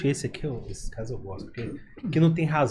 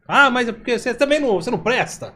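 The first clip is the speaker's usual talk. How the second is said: mock indignant retort, a bit higher; imitated rude outburst; 4 semitones higher than usual. Someone lashing out when cornered, mock-rude. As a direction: act out someone turning rude. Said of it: "ela parte pra ignorância".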